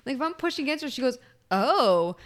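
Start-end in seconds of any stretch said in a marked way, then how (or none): 1.5-2.2 mock put-upon groan; Lydia. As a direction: imitate a follower's little complaint as she is pushed. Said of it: "your impersonation of Lydia".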